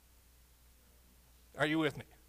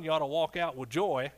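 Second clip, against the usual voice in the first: normal talking voice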